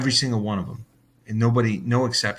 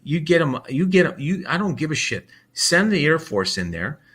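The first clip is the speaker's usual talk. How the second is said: fed-up outburst; 5 semitones higher, 3 dB louder than usual. Retold or imitated. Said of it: "You say".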